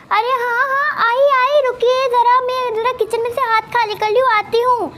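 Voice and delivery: hurried wife answering from the kitchen; busy wife. Acted.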